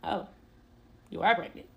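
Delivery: understated, unbothered reply; retold calm reaction. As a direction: imitate his calm, subdued response. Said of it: "He is so calm".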